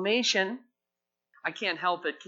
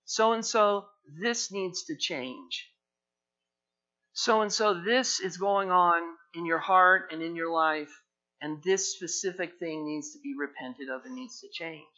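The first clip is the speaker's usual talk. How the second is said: voice of God. Retold or imitated. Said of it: "And he says".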